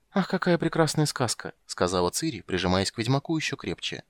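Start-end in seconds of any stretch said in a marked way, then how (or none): 0.1-1.5 put-on high childish delight; a girl sighing happily; delighted little girl. Ciri to Geralt, high delighted sigh. Ciri's voice.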